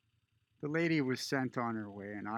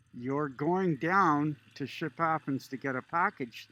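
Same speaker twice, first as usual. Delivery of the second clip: mock disbelief, louder, stressing down; incredulous repeat; 3 semitones higher, 6 dB louder than usual. Older border guard mocking the traveler's answer, incredulous. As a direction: echo her words back as if they're absurd. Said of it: "the lady re-, responds, the guard".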